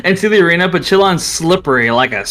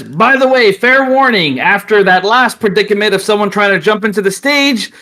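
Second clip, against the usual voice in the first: raised, formal announcer warning; arena announcer; 4 semitones higher than usual. Acted. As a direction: read the rules to the crowd. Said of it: "Chillon says".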